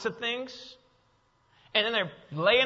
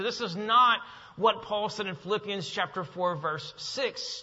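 ordinary talk, nothing marked

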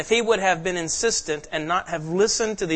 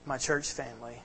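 closing prayer; 2 semitones lower than usual. Real, not acted.

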